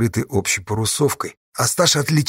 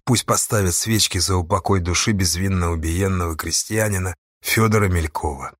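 plain reading voice

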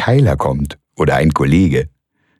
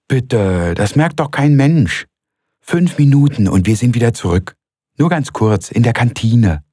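higher, lively coaxing woman; Frau Malsen coaxing; 7 semitones higher than usual. A narrator's reading. Frau Malsen coaxing Röpke to sneak out, higher. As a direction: talk him round brightly.

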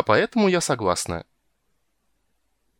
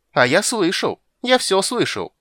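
much higher, louder gloating squeal; gleeful squeal; 10 semitones higher, 6 dB louder than usual. Acted. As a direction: crow over catching her out. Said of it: "с ликованием запищал крысюк".

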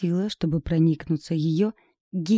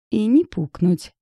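slow giggly quip; giggling; 4 semitones higher, 5 dB louder than usual. Acted. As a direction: giggle the joke out. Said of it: "хихикнула Ирка". (с хихиканьем, медленно)

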